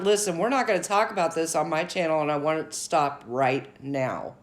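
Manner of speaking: brisk, firm, setting the rules; a quick no-nonsense order to stop; a mild take on a host laying down the law; firm and in charge. Retold or imitated.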